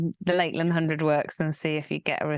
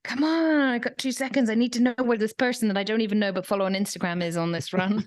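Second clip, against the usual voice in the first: impatient mock rant; 2 semitones higher than usual. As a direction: fire it off like a runner stuck refreshing a tracker. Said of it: "when you're like".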